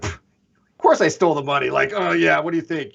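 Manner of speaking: scoffing mock confession; mild sarcastic scoff. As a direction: brush it off with sarcasm. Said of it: "sarcastically trying to make it sound like".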